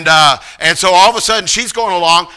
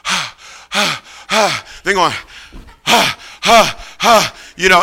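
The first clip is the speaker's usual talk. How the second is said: gasping for air. Retold or imitated. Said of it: "going like that and going".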